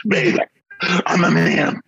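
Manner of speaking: high-pitched imitation of a pleading man; mock begging. Imitating a man on video pleading with his partner, mock begging. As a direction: put on a hammed-up, high begging voice. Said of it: "begging for forgiveness".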